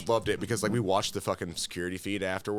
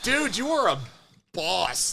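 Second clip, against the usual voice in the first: admiring; 7 semitones higher, much slower than usual. Retold or imitated. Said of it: "I was like".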